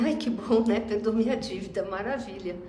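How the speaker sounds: a light touch of glee at being let off; happy relief. Retold or imitated. The forgiven servant leaves cheering to himself, lightly happy. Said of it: "todo contente".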